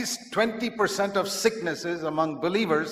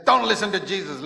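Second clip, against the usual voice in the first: loud, raised warning; giant's counter-order; 4 semitones higher, 6 dB louder than usual. Acted. Giant turning believer from Jesus, loud order. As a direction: cut in forcefully with a command.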